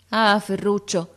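slow, high, pained cry of his name; a grandmother's hurt lament; grieving plea. Acted. Grandmother pleads with boy.

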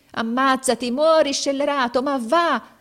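high, loud cursing cry; gritted-teeth fury. A narrator's reading. Captain cursing the lagging boy, gritted-teeth fury. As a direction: curse him onward in desperate anger. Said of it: "stringendo i denti e i pugni".

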